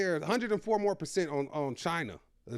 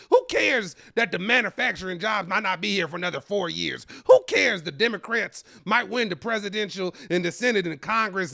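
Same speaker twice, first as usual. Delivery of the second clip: mock rant; 4 semitones higher, 4 dB louder than usual. Escalating mock rant, who cares.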